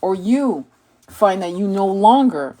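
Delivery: measured, solemn inspirational read; calm, deliberate spiritual reading; oracle card reading. Acted. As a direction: read it like a sacred message.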